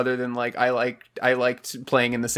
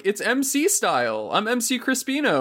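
high, hyped-up rapper boast; mock rapper; 8 semitones higher than usual. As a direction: pitch it up like a cocky MC intro. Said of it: "it was like".

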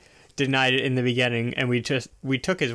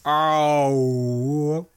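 dawning oh. Real, not acted. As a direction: let the pun land on you. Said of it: "Yeah, Fish Fry".

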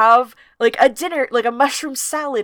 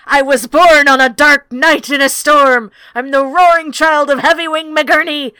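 loud, booming proud owl proclaiming himself; boastful owl roar; 3 semitones higher, 7 dB louder than usual. Acted. Reading out the barn owl's boastful entrance, booming loud. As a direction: announce yourself like a swaggering warrior.

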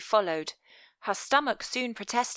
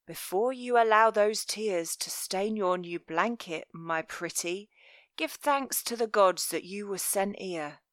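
murmuring villain. Acted. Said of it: "Master Velvet murmured in her ear".

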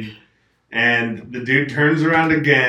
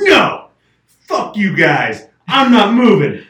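retold hostile snap; 7 semitones higher, 6 dB louder than usual. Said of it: "They're like".

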